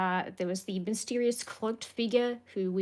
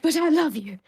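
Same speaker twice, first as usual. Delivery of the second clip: higher and louder, a mock heartbroken cry; hammed-up sad plea; 6 semitones higher, 7 dB louder than usual. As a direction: overplay the hurt, half-joking. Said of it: "Harper was really sad and was like".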